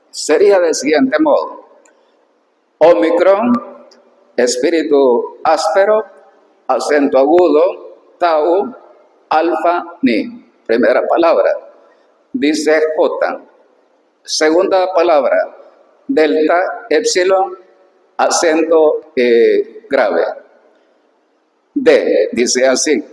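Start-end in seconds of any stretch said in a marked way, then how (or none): 2.8-10.5 word-by-word dictation with pauses; slow dictation. Real, not acted. Teacher spelling out Greek words for a student, slow dictation. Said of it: "voy a dictar así despacio". 16.1-20.2 measured spelling-out with pauses; slow dictation. Real, not acted. Teacher dictating the second word letter by letter, slow dictation. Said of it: "voy a dictar así despacio".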